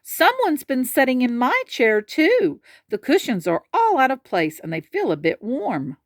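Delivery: hint of Mama Bear; Mama Bear gasping. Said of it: "sat in her chair and gasped".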